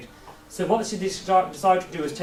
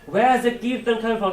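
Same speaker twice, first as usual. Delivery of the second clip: retold shout; 4 semitones higher, 4 dB louder than usual. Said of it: "started shouting".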